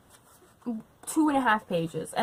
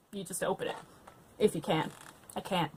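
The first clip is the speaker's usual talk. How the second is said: usual speaking voice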